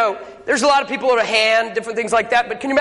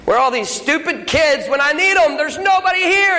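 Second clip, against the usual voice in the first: mock frantic complaint; 5 semitones higher than usual. Frantic gorilla man complains.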